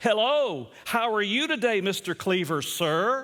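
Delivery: slow, fake-polite inflection laid on. Retelling how Eddie greets Mister Cleaver, the father; Eddie impression with telling inflection. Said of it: "you could hear the inflection of his voice".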